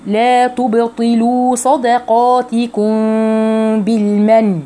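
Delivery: slow chanted phrase, drawn-out vowels; tajweed recitation. Shown as a demonstration. Teacher models the phrase for students, slow chanting. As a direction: recite slowly, each syllable clear.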